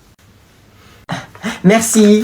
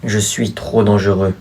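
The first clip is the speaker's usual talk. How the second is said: cringey drama acting; 4 semitones lower than usual. Boy confessing his dangerous powers to his sister, soap-opera style. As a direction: overplay a tragic secret. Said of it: "le jeu d'acteur en frisson de gêne".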